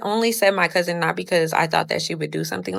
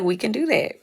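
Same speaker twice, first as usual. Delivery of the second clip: retold fight challenge, pitched up; higher-pitched, mildly cocky comeback; 5 semitones higher than usual. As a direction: take her up on a fight, in retelling. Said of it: "so it sounds funny coming out of my mouth".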